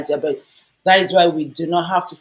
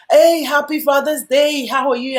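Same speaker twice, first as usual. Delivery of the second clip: smiling greeting; 7 semitones higher, 4 dB louder than usual. Retold or imitated. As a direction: act out a smiling hello to an elderly man. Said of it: "just myself smiling".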